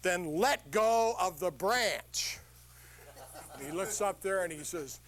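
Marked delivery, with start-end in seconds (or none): 0.0-2.4 very slow, measured command; calm God's command. Acted. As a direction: say it slowly and serenely. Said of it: "And God said".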